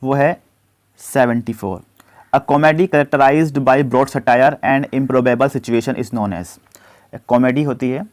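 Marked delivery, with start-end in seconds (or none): 2.3-6.6 slow, deliberate dictation of the question; slow question read-out. Acted. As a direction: read it out word by word for students. Reads quiz question slowly. (धीमी आवाज़ में प्रश्न पढ़ना)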